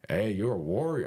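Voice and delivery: lightly imitated Mexican accent; a rough stab at a Mexican accent. Mexican cellmate admiring the fighter, in an attempted Mexican accent. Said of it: "my, my accent".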